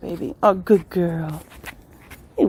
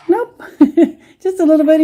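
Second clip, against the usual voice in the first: talking to a dog; 7 semitones higher, 7 dB louder than usual. Real, not acted. High reply to dog.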